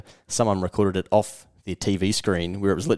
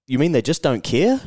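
rising, disbelieving question; higher-pitched mock disbelief; incredulous; 5 semitones higher than usual. Baffled man questioning New Zealand business figures, incredulous. Acting out the baffled listener's reply.

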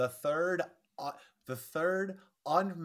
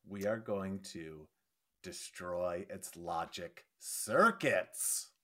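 mock robot voice; 3 semitones lower, much slower than usual. Mock robot Kirk line.

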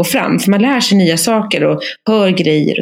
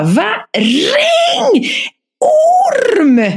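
panicked shout; much slower than usual. Retold or imitated. Husband yelling in panic about the snake. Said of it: "Han bara".

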